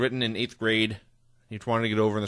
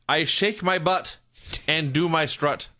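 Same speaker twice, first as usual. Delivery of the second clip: slow, deliberate recital; quoted announcement; 3 semitones higher, slower than usual. Retold or imitated. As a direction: spell out the catchphrase slowly as a quote. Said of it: "he announced, quote".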